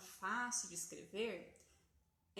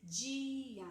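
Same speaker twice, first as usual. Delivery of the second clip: "Dia" louder, carefully spelled out; louder example word; 3 semitones higher, 6 dB louder than usual. Shown as a demonstration. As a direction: model "Dia" loud and clear for a child. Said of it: "a criança vai juntando".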